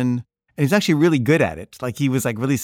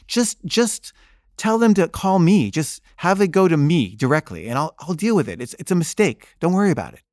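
dismissive dad; 4 semitones higher than usual. Retold or imitated. Dad insisting it's a mistake.

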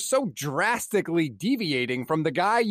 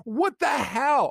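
exasperated shout; 4 semitones higher than usual. Real, not acted. Podcast host ranting at Russell Wilson, exasperated shout. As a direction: yell your disbelief at him.

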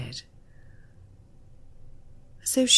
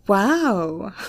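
grinning; 2 semitones higher, 3 dB louder than usual. A narrator's reading.

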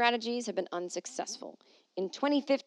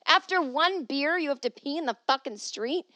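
incredulous; 6 semitones higher, 4 dB louder than usual. Real, not acted. Incredulous outburst.

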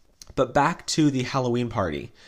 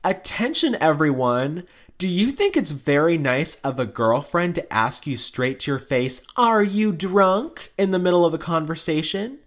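hammed-up raised-glass announcement; mock toast announcement; 3 semitones higher than usual. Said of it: "clinks her glass, and says".

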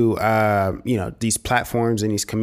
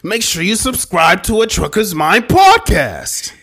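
hyped announcer; 9 semitones higher, 7 dB louder, slower than usual. Acted.

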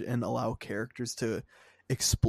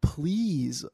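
higher, louder, worked-up rant; fired-up rant; 7 semitones higher, 4 dB louder than usual. Real, not acted. To the co-host, a fired-up high rant about fans. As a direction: boil over at the fans. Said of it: "you're fired up about this".

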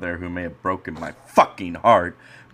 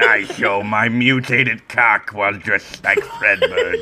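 Brad Thompson voice. Acted. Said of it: "my Brad Thompson voice".

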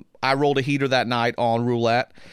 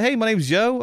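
high friendly intro; 8 semitones higher than usual. Retold or imitated. Introducing himself in sauna.

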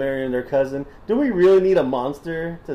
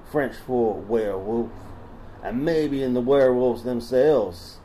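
put-on Southern accent. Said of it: "Should I stop doing the voice?".

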